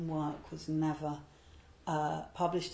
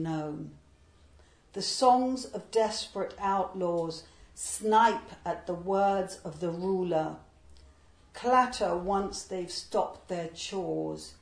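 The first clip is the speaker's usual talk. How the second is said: slow, measured reading of a rhyming poem; poem recital; 3 dB louder, slower than usual. Acted. Translator reading his poem to an audience, measured recital. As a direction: declaim each line with weight and pauses.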